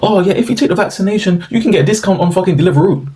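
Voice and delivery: mocking ad voice. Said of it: "they were making videos saying".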